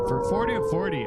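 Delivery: high and loud, building up; excited shout. Real, not acted. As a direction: shout it out in delight. Sub goal met.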